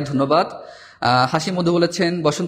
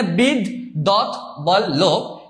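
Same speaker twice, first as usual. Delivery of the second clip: বিদ, দত, বল, লোভ each set apart; four separate syllables; much slower than usual. Shown as a demonstration. Teacher showing four syllables to students, বিদ, দত, বল, লোভ said separately. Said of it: "চারটা অক্ষর আমরা এই শব্দটা উচ্চারণ করেছি".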